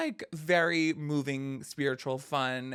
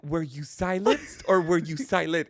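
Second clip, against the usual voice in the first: Oprah meme; 6 dB louder than usual. Retold or imitated. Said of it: "that Oprah meme".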